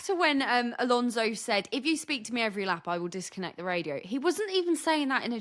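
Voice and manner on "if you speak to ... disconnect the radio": flat, fast and dry; deadpan. Retold or imitated. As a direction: say it bone-dry, no joke in it. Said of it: "so incredibly deadpan".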